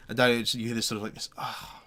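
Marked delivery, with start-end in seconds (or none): 1.4-1.8 whiny protest. Acted. Dario complains about guard duty.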